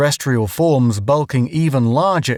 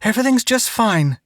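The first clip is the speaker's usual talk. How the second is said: gasping; 10 semitones higher than usual. A narrator's reading. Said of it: "gasping for breath".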